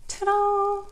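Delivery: high, bright ta-da of a big reveal; excited reveal. Real, not acted. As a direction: show it off like a magic trick. Reveal after peeling stencil.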